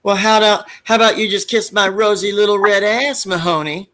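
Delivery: lightly voiced high, smug retort; snotty comeback to Mahoney; Harris character voice. Harris snapping back at Mahoney, lightly voiced smug. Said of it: "Harris said something back".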